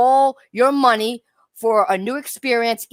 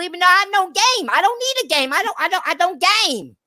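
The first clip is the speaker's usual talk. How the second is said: grovel and stutter like an eager yes-man, pitched up; mock groveling fan; 2 semitones higher than usual. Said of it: "That's the way you sound".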